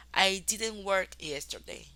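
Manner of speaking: slow, clear English example for learners; careful classroom pace; slow model sentence. Shown as a demonstration. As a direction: spell it out slowly for the class. Teacher models negative example sentence.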